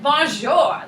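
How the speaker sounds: slow, drawn-out enthusiastic French; enthusiastic bonjour. Shown as a demonstration. Teacher who likes saying it, enthusiastic drawn-out bonjour. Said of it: "not supposed to say it without enthusiasm".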